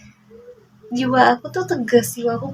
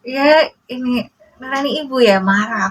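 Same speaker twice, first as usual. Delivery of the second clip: tearful; 3 semitones higher, 7 dB louder than usual. Real, not acted. Mother upset recalling child crying.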